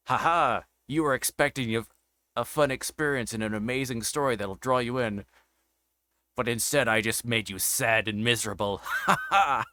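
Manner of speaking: gloating hammy villain laugh; sneering panto villain. Pretend. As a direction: cackle like a smug cartoon baddie. Gloating dev voiced as villain.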